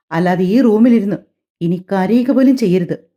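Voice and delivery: a hint of a cold, stern husband, slowing on the warning; stern anger. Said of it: "അവൻ ഗൗരവത്തിൽ". (ഗൗരവത്തോടെ, മയമില്ലാത്ത താക്കീത്)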